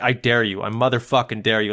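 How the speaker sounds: low-key mock challenge; daring you to laugh. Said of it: "as if he's daring you to laugh".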